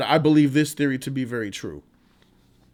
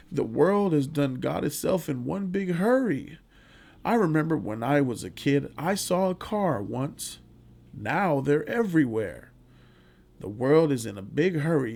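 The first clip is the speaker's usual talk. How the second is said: put-on sad old man; 4 dB quieter than usual. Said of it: "sad face and sad voice".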